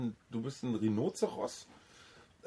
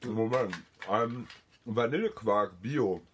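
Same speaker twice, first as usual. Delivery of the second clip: mouth full; slower than usual. Real, not acted. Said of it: "Ich esse gerade einen".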